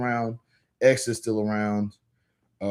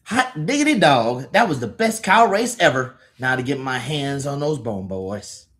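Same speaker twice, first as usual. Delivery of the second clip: high, drawn-out gleeful cartoon voice; excited comic character; 5 semitones higher than usual. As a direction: crow over the race, high at first then settling. Reads comic character's lines aloud.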